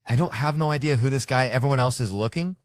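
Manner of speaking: wife playing it off. Wife in the grocery store denying she knows her husband, loud and high. Wife pretending not to know him.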